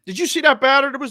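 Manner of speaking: excited daughter. Retold or imitated. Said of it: "she just starts".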